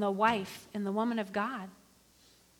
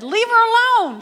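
stern command; 10 semitones higher, 11 dB louder than usual. Acted. Man of God defending her.

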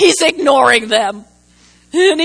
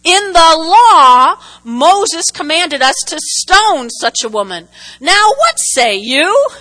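challenging Pharisees. Retold or imitated. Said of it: "this is the Pharisees talking to Jesus".

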